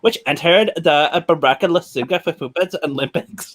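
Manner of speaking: lightly put-on dumb girl voice. Reading film summary in a different voice, mock dumb girl. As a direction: read it like a clueless girl, stumbling over names. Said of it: "I read it like a dumb girl".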